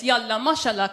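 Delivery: Farsi accent on "Yalla, mashallah"; Persian. Shown as a demonstration. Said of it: "Persian, sounds like this".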